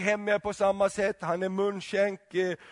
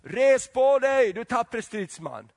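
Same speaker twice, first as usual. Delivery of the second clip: booming angel, slow and much louder on the first words; angel's call; 4 semitones higher, 4 dB louder, slower than usual. Acted. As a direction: call him up like a mighty angel. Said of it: "kommer ängel och säger". (kraftfull ängelsröst)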